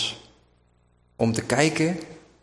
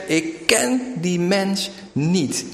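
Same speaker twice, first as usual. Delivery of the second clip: higher and slow, forced denial; cursing denial; 6 semitones higher, much slower than usual. Retold or imitated. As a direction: swear it off, dragging each word. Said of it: "hij vervloekt en hij zegt".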